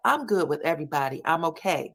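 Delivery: quick, unbothered-sounding reply; tense brush-off. Retold or imitated. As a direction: imitate a hurried "I'm fine". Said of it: "That's how she says it".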